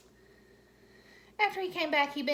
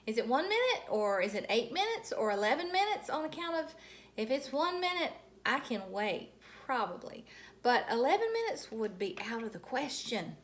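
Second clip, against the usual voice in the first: put-on eager child; 3 semitones higher, 4 dB louder than usual. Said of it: "I asked".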